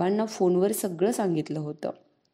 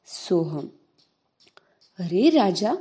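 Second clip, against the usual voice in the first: tender whisper; slower than usual. Acted. Sister calming her little brother, tender whisper. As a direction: hush him gently, breathy and close.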